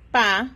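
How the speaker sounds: put-on a clear, loud "pa" for children; syllable pa. Shown as a demonstration. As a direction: punch the syllable "pa". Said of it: "la combinamos con".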